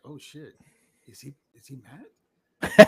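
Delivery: mock worry. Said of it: "I'm like".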